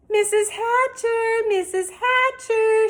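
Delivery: high, loud, eager call. Acted. Girl scrambling down a rock calling the mother, high and loud. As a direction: shout for her attention, drawn out. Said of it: "Sheila called".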